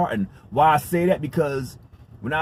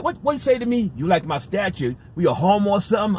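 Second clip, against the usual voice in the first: retold outburst, half-heated; mock angry; 5 semitones higher than usual. Confronting the airport man, mock angry. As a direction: replay the blow-up without full force. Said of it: "I went off on the brother".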